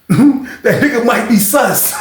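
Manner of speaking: slow, laughing through the line; cracking up. Real, not acted.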